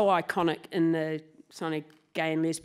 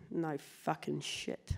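ordinary talk, nothing marked

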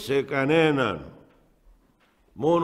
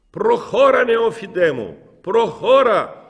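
high, loud victorious cry; triumphant shout; 10 semitones higher, 7 dB louder than usual. Retold or imitated. Elder calling after the young deacon in the courtyard, triumphant loud shout. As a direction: call out like a conqueror urging him on. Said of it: "να φωνάζει με έναν ύφος θριαμβευτικόν, νικητή".

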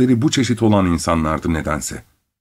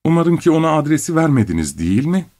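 moaning voice; 6 semitones higher than usual. A narrator's reading. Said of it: "inler gibi bir sesle".

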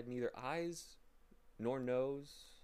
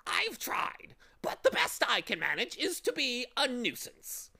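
high, loud, woeful bird voice; sad bird; 13 semitones higher, 7 dB louder than usual. A narrator's reading. Bird confessing through filthy tears, high and woeful. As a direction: bewail it as a squawky bird. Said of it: "he replied sadly".

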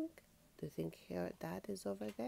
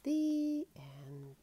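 whispered ending; 5 semitones higher than usual. Acted. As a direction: whisper it like a bedtime goodnight. Closing the bedtime story.

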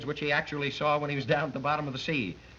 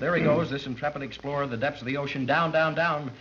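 mock play-by-play.

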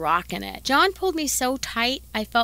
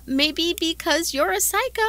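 mock yell; 7 semitones higher than usual. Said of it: "I wanted to yell".

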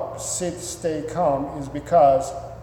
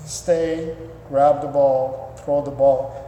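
giving dog commands; slower than usual. Shown as a demonstration.

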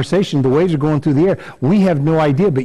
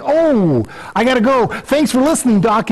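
hurried brush-off; 8 semitones higher than usual. Acted. Patient rushing out of doctor.

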